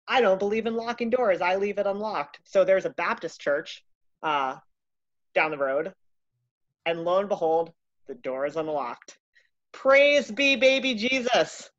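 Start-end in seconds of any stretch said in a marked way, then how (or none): 0.1-2.4 mock pastor voice. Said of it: "the pastor is always like". 9.7-11.7 high, loud, slow holy exclamation; mock preacher praise. Storyteller mock praising the unlocked church door.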